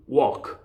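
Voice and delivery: "walk" with open aw from the back of the throat, silent L; throat-back vowel. Shown as a demonstration. Teacher models walk for learners, vowel from the throat. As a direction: say "walk" as "wawk", no L. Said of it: "여기서 소리가 나야 돼요".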